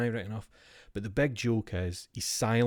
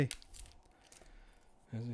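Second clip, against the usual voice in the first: mock whisper; 14 dB quieter than usual. Mock gasp to himself.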